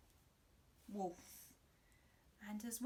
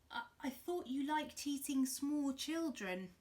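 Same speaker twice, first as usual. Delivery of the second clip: put-on timid child; 5 semitones higher, 4 dB louder than usual. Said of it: "I said".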